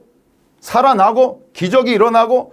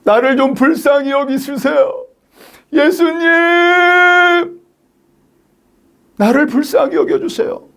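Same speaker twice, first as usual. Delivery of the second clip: high, pleading wail to Jesus; earnest high-pitched cry for pity; desperate crying out; 6 semitones higher, slower than usual. Acted. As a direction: beg for mercy, stretching the name long. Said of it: "간절히 소리질러 외쳤잖아요".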